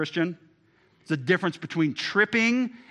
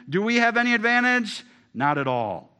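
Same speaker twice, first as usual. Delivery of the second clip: emphatic; 7 semitones higher, 6 dB louder than usual. Acted. Emphatic scripture reading.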